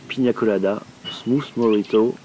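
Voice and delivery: put-on French speaker putting on an English accent; silly English accent. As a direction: say the drink names in a goofy English accent. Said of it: "je prends un accent, euh, anglais débile".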